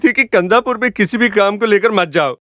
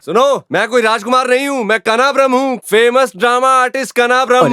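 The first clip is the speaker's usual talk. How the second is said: high, strained proclamation; shouted declaration; 4 semitones higher than usual. Acted. Drama artist reveals he is no prince, shouting. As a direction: declare it at the top of your pitch. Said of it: "अरे गला फाड़ के चिल्लाओ मत".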